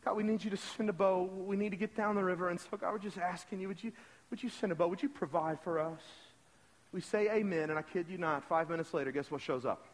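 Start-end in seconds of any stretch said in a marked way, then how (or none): 0.0-6.0 plain, hesitant imitated prayer; understated retold plea to God; simple prayer. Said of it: "this missionary prays a simple prayer".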